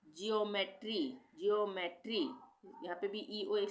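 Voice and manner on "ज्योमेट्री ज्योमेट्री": ज्योमेट्री with a "jyo" start, said clearly; pronunciation demo. Shown as a demonstration. Teacher to students, modelling ज्योमेट्री. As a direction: say ज्योमेट्री as "jyo-metree", crisply. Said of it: "इसी तरह से".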